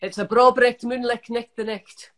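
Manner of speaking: broad Scottish phrase on request; Scottish accent. Shown as a demonstration. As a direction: show off your Scottish accent. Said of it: "give me a Scottish thing to say".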